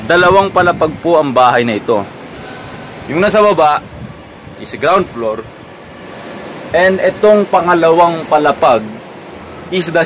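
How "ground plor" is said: "ground floor" with P for F, Philippine style; Philippine accent. Shown as a demonstration. Vlogger labelling the lower storey, Philippine accent. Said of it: "kung mahal mo ang Philippine accent".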